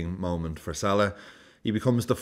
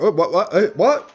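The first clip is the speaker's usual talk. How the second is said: high, loud stunned whats; mock disbelief; 10 semitones higher, 6 dB louder than usual. Fan reacting to the goal, high confused whats. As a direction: sputter in disbelief. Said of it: "it's like".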